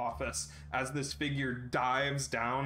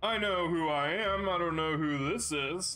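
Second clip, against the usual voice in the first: possessed man; 4 semitones higher than usual. Acted.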